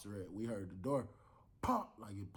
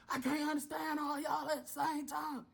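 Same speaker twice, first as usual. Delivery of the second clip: exasperated officer. Retold or imitated. Officer overwhelmed by yelling.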